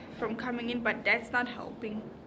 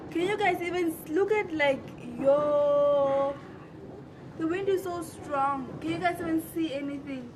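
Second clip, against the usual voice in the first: loud, raised voice over the wind; shouting over wind; 2 semitones higher, 5 dB louder than usual. Real, not acted. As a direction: call out over the gusts. Filming outside in strong wind.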